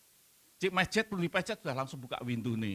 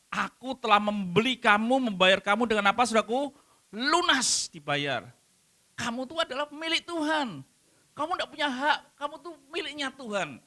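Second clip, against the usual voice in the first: voicing God; 9 semitones higher, 4 dB louder than usual. Preacher voicing God's words.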